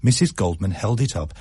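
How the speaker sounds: plain reading voice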